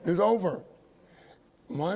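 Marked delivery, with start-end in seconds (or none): 0.1-0.6 laughing. Real, not acted. Laughs at his lost dream.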